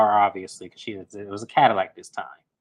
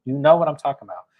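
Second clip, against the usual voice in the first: louder and fast, pressing the point; insistent repeat; 6 dB louder, faster than usual. Retold or imitated. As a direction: push it harder the second time. Repeated quote, pushed harder.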